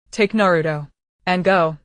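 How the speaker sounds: raspy, dying resolve. Acted. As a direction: rasp it out like an old bellows. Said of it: "voice was as raspy as an old bellows".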